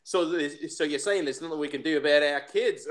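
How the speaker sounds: put-on Australian mobster; lightly voiced Aussie mobster; Australian accent. Mobster asking about the kids, Australian accent. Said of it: "has an Australian accent".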